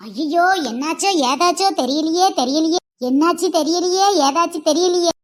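sing-song wailing lament; keen for the sick son; hammed-up mother's wail; mock lament. Mother lamenting son's illness.

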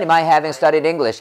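quick, run-together English chunk; brisk fluency-drill delivery; said quickly. Shown as a demonstration. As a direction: rattle off the phrase as one chunk. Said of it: "빨리".

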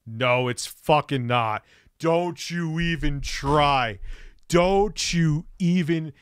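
slow, firm and angry. Real, not acted. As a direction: shut down the comparison. Angry denial of comparison.

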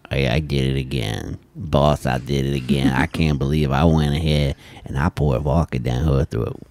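low, mock Canadian accent; doing a goofy Canadian voice. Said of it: "Is that what you think a Canadian accent is?".

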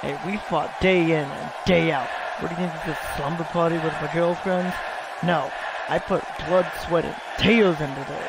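defiant shouted boasting, wrestler trash talk; terrible attitude. Pretend. Wrestler shouting back at her rival with attitude. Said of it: "Don't give me that terrible attitude impression".

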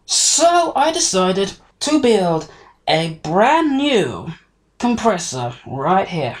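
loud, half-shouted explanation; shouting. Real, not acted. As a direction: raise the voice without meaning to. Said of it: "Don't know why I'm shouting".

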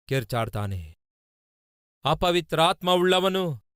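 normal talking voice

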